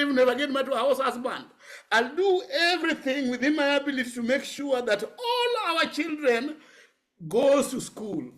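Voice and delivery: high pitched, close to tears, half laughing through it; tearful vow. Retold or imitated. Son retelling his mother's vow to school her children, high and near tears. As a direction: plead it, voice breaking upward.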